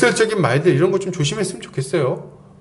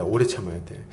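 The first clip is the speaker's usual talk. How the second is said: 오래 참아야 돼 said much lower and softer, like a quiet echo; soft repeat; 10 semitones lower, 7 dB quieter than usual. Shown as a demonstration. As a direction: repeat it quietly to yourself, 오래 gently stressed. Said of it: "오래 참아야 됩니다".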